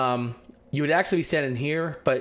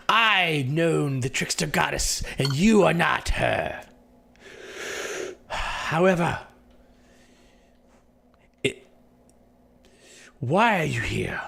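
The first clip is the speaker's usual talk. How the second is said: slow suspicious NPC; slower than usual. Acted. NPC slowly questions.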